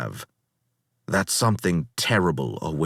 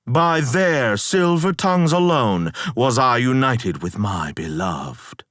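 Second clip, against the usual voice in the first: heavy mock praise, pitch climbing higher; sarcastic; 3 semitones higher than usual. Odysseus mocking his crew to the Necromancer, dripping sarcasm. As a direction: praise the crew while sneering at them.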